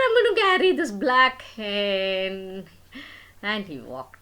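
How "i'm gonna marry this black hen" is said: louder, firm insistence; insistent declaration. Acted. Son insisting to his mother about the hen, loud and firm. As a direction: plant your feet and insist.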